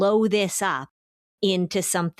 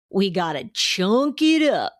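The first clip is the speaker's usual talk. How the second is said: put-on slow, drawn-out Southern accent; 3 dB louder than usual. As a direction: imitate a friend's Southern accent, a bit louder. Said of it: "in his Southern accent".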